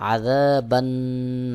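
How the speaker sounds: আযাবান্নার drawn out, nasal ন্ন; slow recitation. Shown as a demonstration. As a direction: stretch it slowly. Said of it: "এক আলিফ টান দিয়ে উচ্চারণ করতে হবে". (টান দিয়ে আযাবান্নার)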